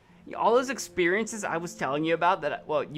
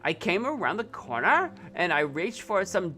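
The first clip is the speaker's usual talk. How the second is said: lightly voiced Valley Girl reading. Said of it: "do the Valley Girl again".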